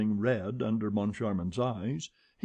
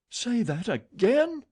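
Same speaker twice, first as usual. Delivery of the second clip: high, loud, slow menace; furious challenge; 12 semitones higher, 5 dB louder than usual. A narrator's reading. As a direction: dare him to repeat it. Old woman before slapping.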